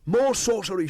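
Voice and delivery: high, loud mob shouting; frightened villagers screaming at the wolf boy. Acted. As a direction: hurl it like an angry crowd. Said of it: "shouted the villagers".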